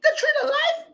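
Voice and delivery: very high, breathless whispered disbelief; mock her in a high whisper. Speaker mocking the agent's tree name, whispered.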